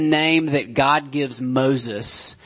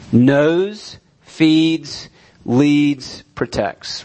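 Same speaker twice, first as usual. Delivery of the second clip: each word knows, feeds, leads, protects set apart and louder; emphatic recap; 4 dB louder, much slower than usual. Shown as a demonstration. Preacher summing up the list, punched words. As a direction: tick them off one by one. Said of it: "recap of the four points".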